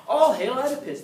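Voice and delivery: mock royal acclaim; hailing the hero. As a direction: cry out his name like a crowd.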